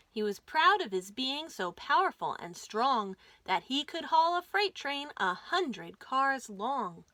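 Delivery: lively rhyming storybook read; reading to children. A narrator's reading. Host reads the caboose book aloud to kids, lively. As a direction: bounce the rhymes for little listeners.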